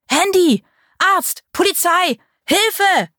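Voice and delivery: high desperate bellow. A narrator's reading. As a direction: bellow each word for help. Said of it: "Paul brüllte".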